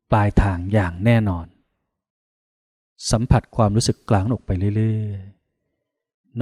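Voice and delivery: measured meditation guidance with long pauses; guided meditation. Acted. Monk guiding listeners to feel mid-chest and spread loving-kindness, guided meditation. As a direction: guide them inward, drawing out the endings.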